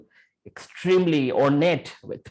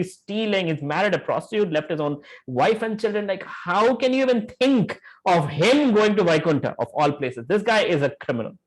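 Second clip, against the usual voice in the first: scoffing disbelief; 4 semitones higher than usual. Acted. Death messengers scoffing at the idea.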